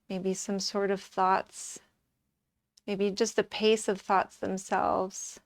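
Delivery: calm, measured yoga-teacher voice; settled meditation delivery; guided relaxation. Acted. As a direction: guide them inward evenly and unhurriedly. Leads a relaxation.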